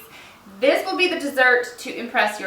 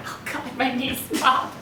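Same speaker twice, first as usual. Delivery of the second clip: laughing through the words, a bit softer; 5 dB quieter than usual. Real, not acted. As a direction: giggle at your own knees popping. Laughing at popping knees.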